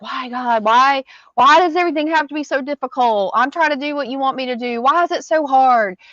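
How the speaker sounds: high, pleading complaint to God; whiny why gods. Retold or imitated. Speaker mocking her own complaining to God, high whine. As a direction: whine at heaven like everything's unfair. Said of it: "That's what I call it when I'm like".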